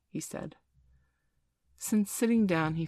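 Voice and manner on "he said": ordinary delivery, nothing marked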